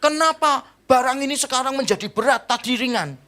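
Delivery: high-pitched imitation of a crying kid; hammed-up tearful complaint; mock child wailing. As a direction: whine it like an upset little child. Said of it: "dia nangis lebih kenceng dari tadi".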